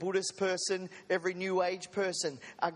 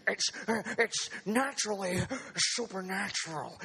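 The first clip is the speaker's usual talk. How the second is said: Sid Roth impression. Preacher mimics a TV host to his congregation, light impression. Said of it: "It's how he talks".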